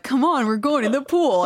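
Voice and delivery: high, excited mock call; excited invitation. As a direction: imitate eager friends calling you over. Acting out water polo players inviting her.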